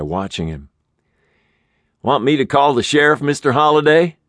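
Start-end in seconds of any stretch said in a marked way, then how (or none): 2.0-4.2 high, quick, anxious little manager voice; a fretful manager hovering, voice pitched up; nervous motel manager. Acted. Manager fretting over hurt tenant, high and anxious.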